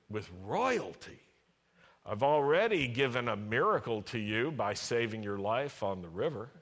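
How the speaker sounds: a hint of a coaxing pep talk; flattering God. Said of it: "he wanted God to say".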